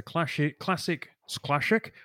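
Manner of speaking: light Scottish film-star accent, classic said as classhic; a hint of a Scottish accent, slipped in softly and by accident; Sean Connery accent. Shown as a demonstration. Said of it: "Trying to do a Sh-, Sean Connery accent accidentally".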